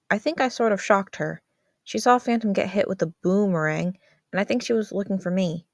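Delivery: put-on a kid explaining it wasn't his fault; defensive teen boy. Brother answering his sister, a defensive teen voice.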